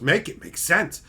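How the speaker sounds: building from firm to a high, slow shout; escalating exasperated yell; rebelling brain. Acted. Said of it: "My brain fucking rebels. It just goes".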